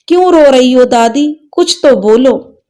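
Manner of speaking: put-on a small boy coaxing his crying granny; worried child. Grandson begs weeping grandmother to speak, light boyish worry.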